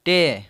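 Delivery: "टे" held long on its vowel; teacher stretching the vowel in "टे"; syllable demonstration. Shown as a demonstration. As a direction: sound out "टे" as a separate syllable. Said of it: "मतलब कि ई का sound आ रहा है".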